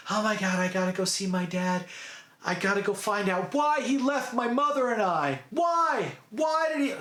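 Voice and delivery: mildly imitated anguish, pitch rising towards the end; Gabrielle. Daughter wants answers about her father, mock pleading. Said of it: "Gabrielle's like".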